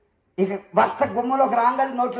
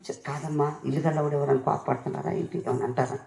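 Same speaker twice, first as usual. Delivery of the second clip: hushed pastor; 8 semitones lower, 9 dB quieter than usual. Retold or imitated.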